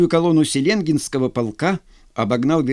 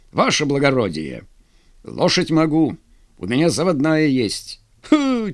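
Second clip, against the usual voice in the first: lightly voiced bantering Cossacks; 3 semitones higher than usual. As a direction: lightly act out a teasing wager. (казачья перебранка, слегка в образе)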